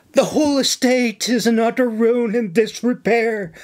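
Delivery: lightly acted, earnest plea; pleading Nora. Nora asking the governor for staff, pleading. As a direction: plead for help with mild distress.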